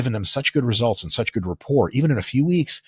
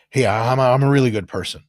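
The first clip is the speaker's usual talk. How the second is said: loud, over-insistent first-date pitch; mock creepy self-introduction; serial killer-like; 6 dB louder than usual. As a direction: push your goodness a bit creepily. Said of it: "It comes off really serial killer-like".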